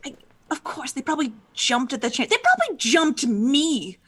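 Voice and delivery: a touch of crying in the voice; upset lament. Acted. Character laments her murder.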